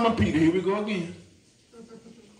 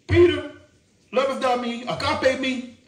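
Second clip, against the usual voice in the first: Jesus asking Peter; 5 semitones higher than usual. Acted. Jesus questioning Peter, voiced.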